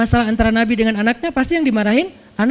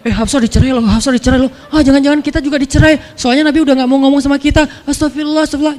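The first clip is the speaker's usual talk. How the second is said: excited gossip; 4 semitones higher, 4 dB louder, faster than usual. Acted. Wives gossiping in their group.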